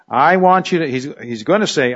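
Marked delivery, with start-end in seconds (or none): 0.1-0.9 higher, strong stress on I; Paul, very emphatic. Acted. Teacher voicing Paul's appeal to the church, very emphatic. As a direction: lean hard on the opening I. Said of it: "he's very emphatic".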